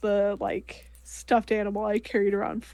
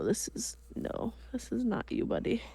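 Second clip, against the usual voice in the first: soft talk to toy; 8 dB quieter than usual. Acted. Talking to toy online.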